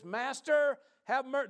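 high-pitched, loud plea; yelling out. Retold or imitated. Lepers calling to Jesus for mercy, yelling. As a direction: shout it like a far-off plea. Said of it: "they're yelling this out".

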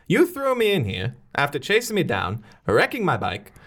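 high, incredulous protest; indignant. Acted. Prisoner challenging the man who jailed her, indignant. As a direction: build in pitch to an incredulous question.

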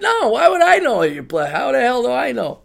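high, giggly, outraged joke; half-laughing fake outrage; laughing mock indignation. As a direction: laugh while playing offended.

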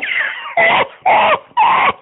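rire aigu et pleurnichard qui éclate; éclate d'un rire suraigu, presque en pleurs. Acted. (fou rire aigu joué)

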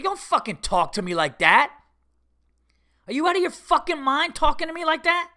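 loud, high, outraged; angry rebuke. Real, not acted. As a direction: tear into her, voice climbing. Rebuking the receptionist in anger.

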